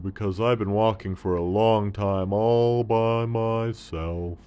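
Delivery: lightly played lonely camel. Camel voice in story.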